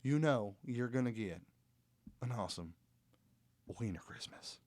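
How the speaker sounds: weak imitation of a Southern drawl; half-hearted Southern redneck accent. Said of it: "botched the southern drawl".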